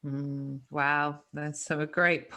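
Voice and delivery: usual speaking voice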